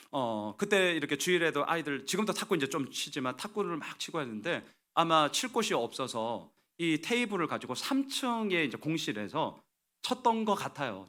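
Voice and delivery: ordinary talk, nothing marked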